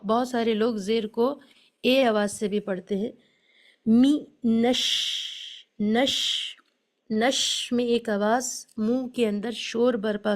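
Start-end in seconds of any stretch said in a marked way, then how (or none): 3.9-6.2 مینش with a thin light short i on می; light mi sound. Shown as a demonstration. Teacher showing students the light zer sound. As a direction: say می نش with a fine, thin vowel. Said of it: "باریک آواز کے ساتھ می پڑھنا ہے".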